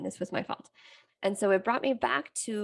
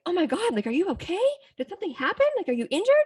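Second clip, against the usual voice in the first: much higher, louder alarmed questions; alarmed partner; 10 semitones higher, 5 dB louder, much faster than usual. Retold or imitated. Partner finds her on the kitchen floor, alarmed and louder. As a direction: rush in frightened she's hurt. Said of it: "he was like".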